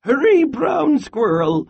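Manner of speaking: high, loud grandmother's call; urgent calling. A narrator's reading. Grandmother waiting at the door, urgent high call. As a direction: call out urgently to bring them running. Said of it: "she called".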